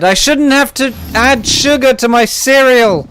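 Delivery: indignant judge. Acted. Retelling the judge objecting to bland cereal, mock indignant. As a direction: complain with rising comic indignation. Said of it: "and the judge said".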